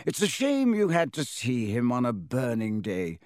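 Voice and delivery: lightly voiced kindly headmaster; gentle old wizard. Dumbledore voiced.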